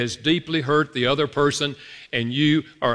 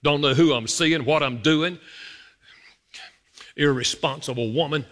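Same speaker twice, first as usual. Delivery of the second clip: grumbling. Retold or imitated. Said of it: "all this stuff run through my mind".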